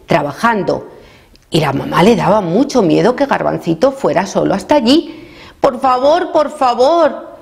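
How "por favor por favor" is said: high-pitched begging; pleading child. A narrator's reading. Garbancito begs mamá to let him go, high pleading.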